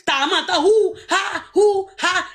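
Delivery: mocking laugh through the words. Real, not acted. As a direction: laugh while taunting. Laughing mockery.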